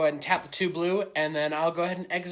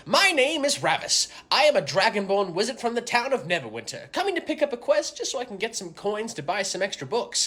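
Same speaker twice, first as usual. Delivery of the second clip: hammy fantasy hero; 3 semitones higher, 3 dB louder than usual. Acted. Player introduces dragonborn character.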